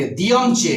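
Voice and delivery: दियमचे run together, both r's silent; joined pronunciation. Shown as a demonstration. Teacher shows students the joining, दियमचे with silent r's. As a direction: say दियमचे as one linked word. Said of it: "ये दोनों जुड़ जाएंगे".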